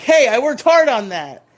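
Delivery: mock-hurt yell; indignant cry. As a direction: shout it like your work was ruined. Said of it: "Trini's like".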